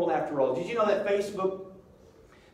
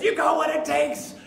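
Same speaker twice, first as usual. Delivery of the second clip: high, loud rallying shout; inner pep talk; 8 semitones higher, 5 dB louder than usual. Retold or imitated. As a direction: fire yourself up with a yell. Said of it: "something in me thought".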